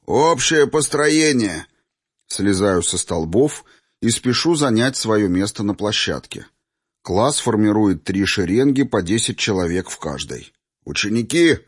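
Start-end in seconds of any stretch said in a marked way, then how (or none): 0.1-1.7 drawn-out, higher-pitched drill order; barked command. A narrator's reading. Teacher to the class after a sparring bout, barked command. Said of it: "учитель гаркнул". 10.9-11.6 mildly raised announcing call; proclamation. A narrator's reading. Teacher addressing his lined-up pupils, mild proclamation. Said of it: "провозгласил Мерген".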